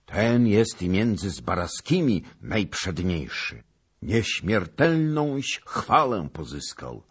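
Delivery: loud, high acclaim; crying out. A narrator's reading. Lords following the king in praising the knight, crying out. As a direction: shout praise in admiring amazement. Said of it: "poczęli wykrzykiwać za królem".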